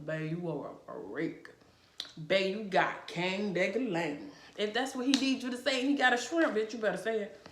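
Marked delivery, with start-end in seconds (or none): 0.1-4.3 lightly sultry voice for a husband; sultry flattery. Retold or imitated. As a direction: coo it to him like pillow talk. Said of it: "you need to be telling him".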